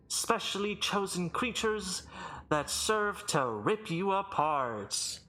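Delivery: grand herald, stretching out key words; slow, swelling showman's proclamation; booming arena announcer. Acted. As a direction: address the condemned before a crowd. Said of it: "booming voice echo throughout the arena".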